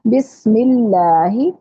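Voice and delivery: बिस्मिल्लाही slowly, with a thin whistled S; whistling seen. Shown as a demonstration. Teacher models recitation for the class, whistling seen. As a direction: lengthen the hiss in बिस्मिल्लाही. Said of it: "सीन को सीटी की sound के साथ पढ़ें".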